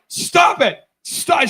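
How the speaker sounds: high-pitched distressed protest; imitated pleading wife. Wife begging her husband onstage, imitated distressed plea.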